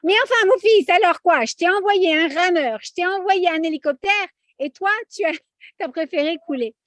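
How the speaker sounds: put-on God chiding his son in a sympathetic Sephardic accent; friendly Sephardic accent. God scolding Maurice after he drowns, in a friendly Sephardic accent. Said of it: "on va lui faire aller sympathique à la séfarade".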